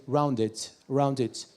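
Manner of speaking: "rounded" in British English; British accent. Shown as a demonstration. Comedian contrasting British with Australian, British accent. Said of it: "In British, you say".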